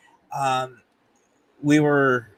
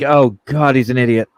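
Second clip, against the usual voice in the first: loud exasperated groan; mock exasperation, louder; exasperated team; 5 dB louder than usual. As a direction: roll your eyes at the boss. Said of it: "my team's like".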